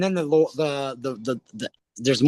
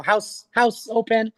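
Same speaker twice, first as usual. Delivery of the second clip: lightly voiced usher, slow and higher; house-opening call; 5 semitones higher, slower than usual. Theatre staff announce the house, lightly mock announcer. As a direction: draw out the call a little.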